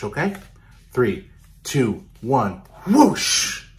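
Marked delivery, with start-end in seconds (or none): 2.2-3.7 whoosh sound. Shown as a demonstration. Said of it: "everyone go whoosh".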